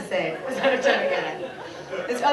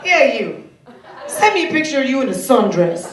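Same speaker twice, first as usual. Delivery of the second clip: mock catcaller voice; 5 dB louder than usual. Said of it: "and shout".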